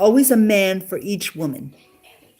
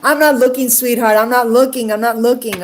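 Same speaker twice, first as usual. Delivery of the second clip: teasing; 3 semitones higher, 4 dB louder than usual. Real, not acted. To sweetheart who walked in.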